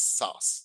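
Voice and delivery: sauce said slowly, like "sauss"; pronounced sauce. Shown as a demonstration. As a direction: model the word sauce slowly and clearly, rhyming with "boss". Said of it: "The pronunciation of this is".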